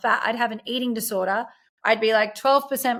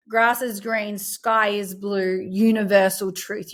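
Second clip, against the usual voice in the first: slow and deliberate; slower than usual. Shown as a demonstration. Spelling out absolute truth.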